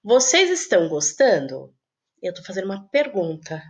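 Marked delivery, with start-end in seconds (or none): 0.0-1.7 asked with a rising question tune; teacher modelling a question; question intonation. Shown as a demonstration. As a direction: make it sound like a real question to the class. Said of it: "Por exemplo".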